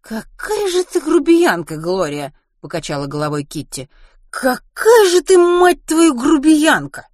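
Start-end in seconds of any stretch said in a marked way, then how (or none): 0.0-2.3 high, loud, drawn-out reproach; indignant rebuke. Acted. Kitty scolds Gloria for being rude, indignant and loud. 4.3-7.1 very high, very loud, drawn-out rebuke; outraged cursing. Acted. Kitty curses Gloria for rudeness, outraged and shrill.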